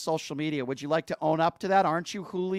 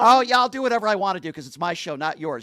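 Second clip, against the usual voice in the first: raised-voice, heated retort; yelling; 4 dB louder than usual. Real, not acted. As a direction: talk back loudly over the caller. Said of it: "don't, don't yell".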